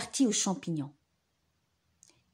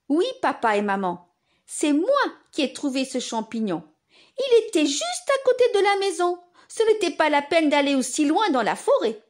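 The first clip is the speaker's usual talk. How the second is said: put-on child voice; 5 semitones higher, 4 dB louder than usual. Paul proud, child voice.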